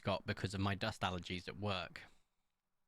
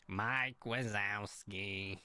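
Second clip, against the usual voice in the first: lightly imitated slow, drawn-out drone; a touch of slow cartoon-lady voice; Monsters Inc lady; 2 semitones lower, much slower than usual. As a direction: stretch the name out in a mild impression. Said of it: "I sounded like her".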